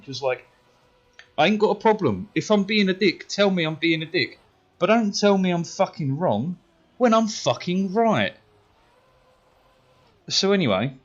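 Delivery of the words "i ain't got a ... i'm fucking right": high, heated self-justification; retold raging. Pupil still raging to his mates after the row, indignant. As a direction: rant indignantly, pitched up. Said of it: "I was still raging".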